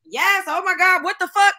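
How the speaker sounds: excited disbelief. Real, not acted. Reacting to a great point.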